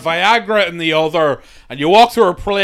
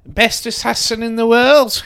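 higher, a hint of a trailer-voice boast; mock grand announcement; 6 semitones higher than usual. Riffing on the film's hero, a mock-epic proclamation. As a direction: sell it like a lightly hammed movie tagline.

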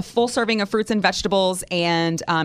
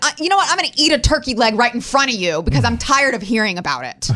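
defiant snark; 4 semitones higher, faster than usual. Retold or imitated. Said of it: "I'm just like".

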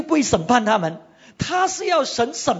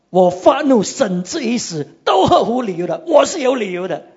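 louder, insistent retort; mock defiant shout; 5 dB louder than usual. Jonah answering God, defiant and loud. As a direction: insist you're in the right, like a stubborn prophet.

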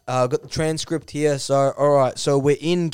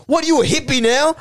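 high-pitched mocking question; scornful jab; 13 semitones higher, 4 dB louder than usual. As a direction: throw it out incredulously. Duck mocks in retold row.

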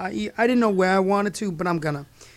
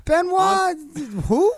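incredulous; 11 semitones higher, slower than usual. Real, not acted. Incredulous name repeat.

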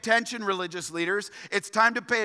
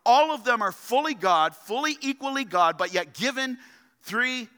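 full-force preaching. Acted. Pastor drives home doctrine to the congregation, forceful preaching. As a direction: preach it out to the whole room.

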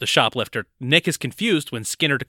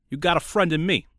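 put-on a thick Brooklyn accent, sung; mock Brooklyn accent; 4 semitones higher than usual. Podcast host doing a singer's line as Brooklyn. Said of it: "that's Jersey".

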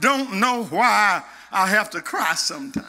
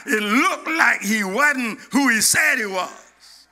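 full-force preaching. Acted. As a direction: preach it out with growing fire.

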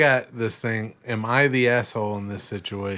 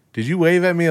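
higher, louder disbelief; surprised question; 8 semitones higher, 6 dB louder, faster than usual. Retold or imitated. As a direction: caught off guard, asking. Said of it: "I'm like".

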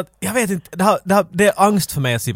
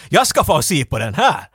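put-on eager old man; 3 dB louder than usual. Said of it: "pekar på den och säger till henne att".

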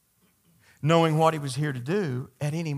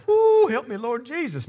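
high, loud whoop to heaven; preacher whooping at the memory of his mama; excited exclamation; 10 semitones higher, 7 dB louder than usual. Real, not acted. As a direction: cry out to the Lord. Preacher overcome remembering his mother.

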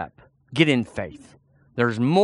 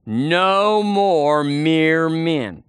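very slow, drawn-out "No more mere men" for the crowd to echo; slow call-and-response; much slower than usual. Shown as a demonstration. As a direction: stretch every word of "No more mere men" so the church can say it along. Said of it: "Say it with me".

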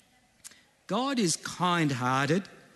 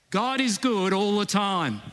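put-on raised, playful African accent call; 5 semitones higher, 3 dB louder than usual. Preacher leading the congregation's response, African accent. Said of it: "put on your best African accent".

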